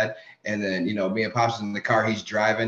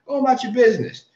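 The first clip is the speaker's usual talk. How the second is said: higher, indignant mock snap; irritated brush-off, pitched up; retold irritated retort; 11 semitones higher, 4 dB louder, faster than usual. Son telling off drunk fans who heckled his family, irritated.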